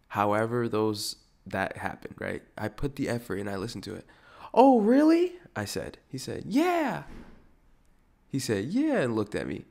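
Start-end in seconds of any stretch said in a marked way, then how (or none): 4.5-5.4 high, loud "oh, really?"; exaggerated high-pitched surprise; mock surprise. Retold reply to surprising news. 6.5-7.0 squeaky-high mocking reply; high put-on agreement; imitated high yeah. Imitates the other man's reply. 8.7-9.0 squeaky-high mocking reply; high put-on agreement; imitated high yeah.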